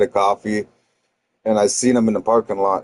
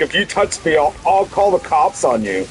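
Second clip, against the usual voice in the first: pitched higher, whiny mock threat; imitated brother backing down; 6 semitones higher than usual. Brother backing away, threatening cops, mocking whine. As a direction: mimic him weaselling out.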